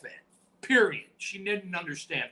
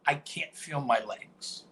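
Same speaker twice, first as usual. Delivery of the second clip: slow, dazed claim to the ref; faked injury; 2 semitones lower, slower than usual. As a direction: drag it out as if suddenly paralysed. Faking an injury to the referee.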